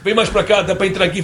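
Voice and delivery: lightly imitated European Portuguese cameraman; Portuguese accent. Portuguese cameraman directing Oscar on set, in a mild Portuguese accent. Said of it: "aí seu Oscar".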